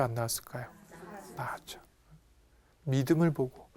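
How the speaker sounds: usual speaking voice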